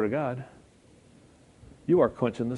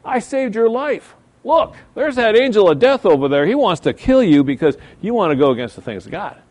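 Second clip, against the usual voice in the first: talking donkey; 8 semitones higher, 8 dB louder than usual. Acted. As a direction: play the donkey shouting a warning. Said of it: "God gave the donkey a voice".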